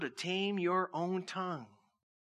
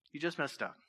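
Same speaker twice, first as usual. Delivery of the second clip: calm retold threat; 2 semitones lower, 4 dB quieter than usual. Preacher retelling his brother's words to him, very calm. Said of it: "he told me very calmly".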